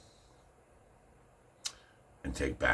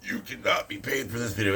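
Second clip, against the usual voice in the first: high mock warning voice; a hint of a prim official voice; mock platform notice; 8 semitones higher than usual. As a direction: read it out like a snippy automated notice. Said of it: "This video is totally gonna be like".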